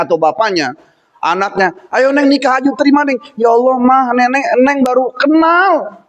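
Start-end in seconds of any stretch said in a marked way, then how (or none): 1.9-3.2 lightly voiced high-pitched mother; pleading mum, pitched up; urging mother. Mother urging daughter to marry. 3.4-6.0 lightly acted daughter's protest, pitched up. Daughter protesting to her mother.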